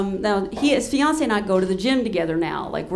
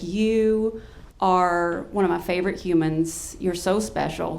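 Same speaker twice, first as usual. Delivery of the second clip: low, slow retold affection; imitating heartfelt comfort; tender sincerity; 3 semitones lower than usual. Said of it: "it was so beautiful and so pure".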